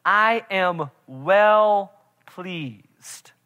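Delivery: slow, drawn-out voice of God, lightly done; voice from heaven. Retold or imitated. Preacher voicing God over Jesus at the baptism, slow and solemn. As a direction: stretch each word like a voice from heaven. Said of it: "a voice comes from heaven".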